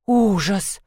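shocked gasp of horror; gasped exclamation. A narrator's reading. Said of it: "ахнула Дюдюня".

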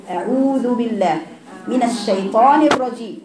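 slow Quranic recitation of أعوذ بالله. Shown as a demonstration. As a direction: recite it slowly and measured. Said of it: "احنا بنقرأ الشين دلوقتي". (تلاوة بطيئة)

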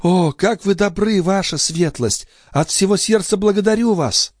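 put-on high young maid's voice; Nicole voice. Maid pleading with the old duke, high girlish voice. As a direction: play the pert young maid.

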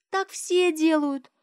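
put-on high, slow little girl's reply; high, slow child's voice; matter-of-fact child. A narrator's reading. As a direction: state it like an obvious child.

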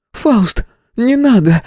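high, urgent cry to stop; exclaiming. A narrator's reading. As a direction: plead loudly, pitch way up. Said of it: "воскликнула Амелия".

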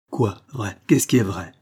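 mild indignant cry. Acted. Accused wife to husband, what is true, mildly indignant cry. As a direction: exclaim it, punching the second question. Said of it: "cria Claire".

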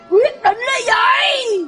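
drawn-out, stagey cry; slow, theatrical wail of relief; exultant outburst. Acted. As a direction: stretch it out in mock-tearful elation. Sudden joy at getting divorced.

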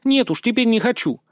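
high, sulky refusal with a pout. Acted. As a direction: sulk like an offended girl. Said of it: "надулась она". (обиженно, надув губы, высоко)

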